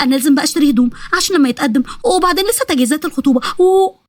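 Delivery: eager, chattering excitement; enthusiastic. Acted. Nesma plans her engagement, excited. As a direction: gush over the plans, lifting at the end. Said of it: "فضلت نسمة تتكلم كتير وبحماس".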